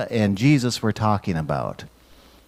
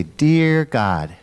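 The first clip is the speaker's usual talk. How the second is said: prayer lead-in; slower than usual. Shown as a demonstration. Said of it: "Will you say a prayer with me".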